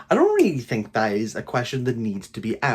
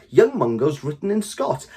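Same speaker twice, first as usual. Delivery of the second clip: mock quote; 3 semitones higher than usual. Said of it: "you hear people say".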